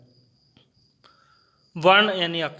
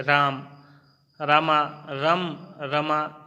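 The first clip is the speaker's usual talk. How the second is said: slow demo; much slower than usual. Shown as a demonstration. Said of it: "इन चारों शब्दों में दो ही वर्ण".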